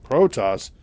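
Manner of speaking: mock stunned disbelief, punched first word; lightly acted bewilderment; taken aback. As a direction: imitate someone caught off guard. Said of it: "He's just kinda taken back".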